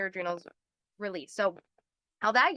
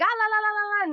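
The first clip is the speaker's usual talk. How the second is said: high, louder flustered babble of someone losing it; mock panic; 10 semitones higher, 4 dB louder than usual. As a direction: babble like a panicked person running around. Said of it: "People are screaming, freaking out".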